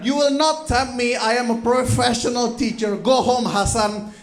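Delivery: mock stern teacher. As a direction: puff up as a righteous teacher. Teacher firmly rejecting student.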